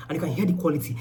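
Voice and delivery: thin phone audio, no lav; recorded on the bare phone mic; bad phone mic. Real, not acted. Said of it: "I think you can hear the difference".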